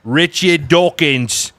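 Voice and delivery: slow, drawn-out mock impression; Richard Dawkins. Cohost mimicking the author's name, drawn-out mock impression. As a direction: stretch the name out, putting on a voice. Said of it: "My name is Richard Dawkins".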